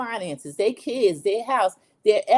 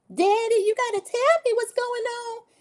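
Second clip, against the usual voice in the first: fake, very high voice, pitch climbing. Retelling a reality show scene, imitating a fake high voice. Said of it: "she's doing that fake high voice".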